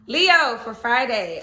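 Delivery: stretched, sing-song Leo for Friday; slow drawn-out announcement. Acted. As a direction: draw out every word slowly. Announcing the next sign.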